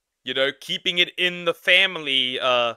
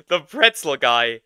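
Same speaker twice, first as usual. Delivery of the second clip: put-on slow New York accent; 3 dB louder than usual. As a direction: say it like a New York street vendor. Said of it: "in a New York accent also".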